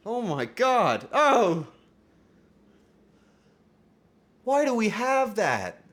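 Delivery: high, loud disbelieving cry; appalled, shouted reaction; shocked outburst. Real, not acted. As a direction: draw it out in loud, high-pitched alarm. Shocked outburst at something in stream.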